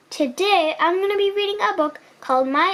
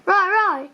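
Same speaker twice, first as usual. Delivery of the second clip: dinosaur roars; 5 semitones higher than usual. Acted. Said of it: "found his roar".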